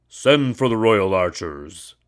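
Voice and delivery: furious order. A narrator's reading. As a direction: summon the archers in anger. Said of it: "he ordered".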